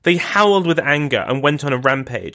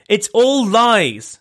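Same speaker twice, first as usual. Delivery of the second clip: shouted denial; 6 semitones higher, much slower than usual. Retold or imitated. Alex refusing the news from Grand Duke Paul, shouting. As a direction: fling the words back in angry denial. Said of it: "she shouted at him".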